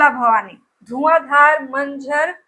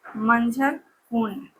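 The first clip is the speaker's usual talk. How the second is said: slow dictation; 3 semitones lower, 7 dB quieter, slower than usual. Shown as a demonstration. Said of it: "कुंड इसको लिखिए".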